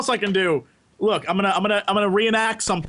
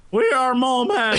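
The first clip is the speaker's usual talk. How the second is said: raised, hammed-up Russian accent; Russian mole man; 4 semitones higher than usual. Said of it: "the mole men are clearly Russian".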